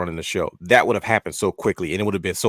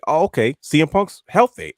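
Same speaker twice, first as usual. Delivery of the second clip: surprised realization; 7 semitones higher, 5 dB louder than usual. Retold or imitated. Sudden realization at Punk's move.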